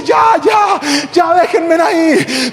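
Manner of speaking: high, pleading surrender cry; begging thief. Retold or imitated. Thief surrendering to the chasing crowd, pleading. Thief begs them to stop.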